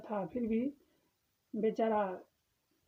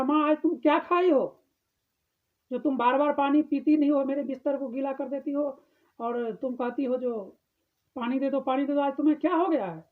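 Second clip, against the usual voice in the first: angry scolding. Retold or imitated. Son fed up with his mother wetting his bed, mild angry scold. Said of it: "जोर से माँ को डांट दिया".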